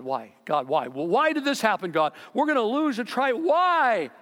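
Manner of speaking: whiny plea building. Retold or imitated. Israelites complaining to God after wiping out a tribe, whiny plea building to a loud, high wail.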